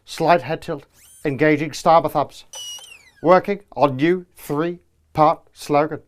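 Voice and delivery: flat monotone robot politician; robotic delivery. Acted. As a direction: read it like an emotionless machine. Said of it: "Starmer's robotic delivery, lack of character".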